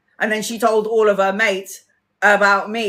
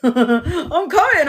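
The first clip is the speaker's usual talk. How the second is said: excited reply; 8 semitones higher, much slower than usual. Retold or imitated. Answering niece and nephew about the barbecue, high and eager. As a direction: answer like a delighted kid. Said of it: "I was like".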